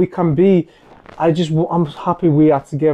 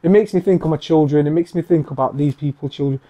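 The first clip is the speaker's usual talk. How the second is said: holding back tears. Real, not acted. To cohost Coops about suffering children, close to tears. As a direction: voice cracking, fighting off crying. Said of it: "I don't wanna cry again".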